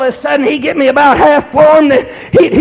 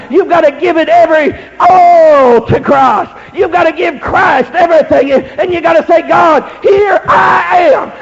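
fervent exhortation; 2 semitones higher than usual. Acted. Exhorts the congregation.

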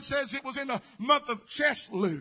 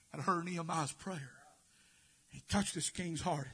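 hushed preaching; 6 semitones lower, 7 dB quieter than usual. Acted. Preacher hushing the church to tell of danger, quiet. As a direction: draw them in with a hush.

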